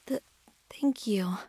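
shy, halting whisper; stammered whisper. Acted. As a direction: stumble over the thanks, whispering.

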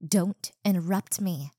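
angry repeat. Acted. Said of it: "I said".

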